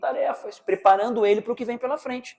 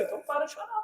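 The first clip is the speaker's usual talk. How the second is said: sharp, raised mock scold; 7 semitones higher, 6 dB quieter, faster than usual. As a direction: snap at the crying child. Acted scolding parent.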